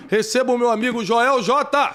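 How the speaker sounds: loud, high announcer call to welcome the guest; announcer intro. Real, not acted. Host hyping the audience as he brings the guest on, big announcer welcome.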